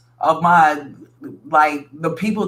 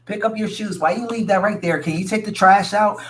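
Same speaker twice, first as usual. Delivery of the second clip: lightly voiced mom chiding her son, higher pitch; nagging mom; 4 semitones higher than usual. Listener mothering her grown partner over chores, mild nagging. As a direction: pester him like a mildly exasperated mother. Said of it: "you feel like his mom".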